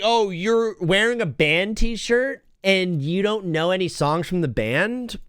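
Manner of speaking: slow, snooty mock voice; mocking band snob. Imitating fans who quiz band shirts, slow and snooty. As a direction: drag it out like a smug gatekeeper. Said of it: "The people who are like".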